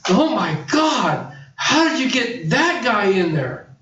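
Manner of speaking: retold amazement, slow and laughing; laughing disbelief. Cousin sees the podcast and laughs in disbelief.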